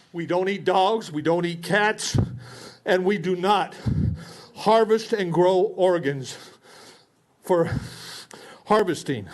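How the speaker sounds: indignant declaration. Real, not acted. Citizen scolding the board, slow and indignant. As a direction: spell it out in outrage. Angry speaker lecturing county board.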